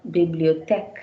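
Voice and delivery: bibliothèque 读作 bi-bli-o-TEK, 尾音上扬; bibliothèque 的 è 开口读; French bibliothèque. Shown as a demonstration. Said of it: "it's pronounced as".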